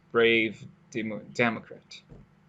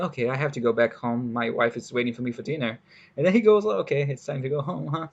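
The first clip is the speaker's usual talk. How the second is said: casual; faster than usual. Retold or imitated. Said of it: "very casually just going back home".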